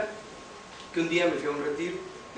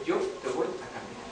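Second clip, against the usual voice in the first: low, soft imitation of a divine voice; voice of God; 6 semitones lower, 6 dB quieter than usual. God answers the doubting man, in a low, soft voice. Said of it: "escuchar la voz que me dice".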